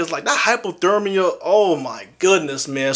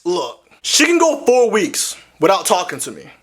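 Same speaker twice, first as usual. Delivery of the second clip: usual speaking voice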